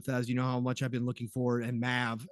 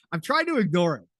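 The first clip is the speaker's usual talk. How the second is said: laughing despair; 3 semitones higher, 5 dB louder than usual. Real, not acted. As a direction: laugh through the envy. Laughs off friend having the game.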